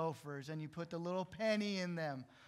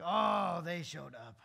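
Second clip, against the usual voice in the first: mock dismay; 7 dB louder, slower than usual. Pastor voices someone in a bad mood about relatives: mock dismay. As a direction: groan at the family arriving.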